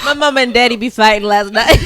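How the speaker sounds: laughing Southern kid impression; playful Southern child tattling; southern accent kid. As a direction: blurt it in a mock Southern accent. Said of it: "why did we get a southern accent".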